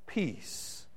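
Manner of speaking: breathy whispered word, barely voiced; hushed whisper of peace. Pastor repeats the key word.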